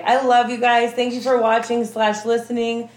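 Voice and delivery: high gushing sign-off with air kisses; airy gushing darling tone. Real, not acted. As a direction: blow kisses to the fans, all sweetness.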